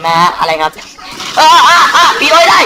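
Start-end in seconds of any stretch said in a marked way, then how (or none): 1.4-2.6 laughs through the words, high and loud; laughing. Real, not acted. Gamer laughing at the zombie on screen. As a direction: break up laughing mid-line.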